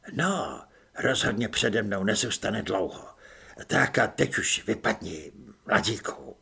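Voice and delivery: a hint of a low, dismissive stranger; lightly voiced unseen helper shooing her off; hidden adviser. Voice behind wall sending Apoléna away, lightly low.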